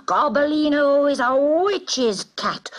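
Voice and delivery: high, slow angry cry; roar. A narrator's reading. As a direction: cry it out in outrage. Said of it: "one great roar".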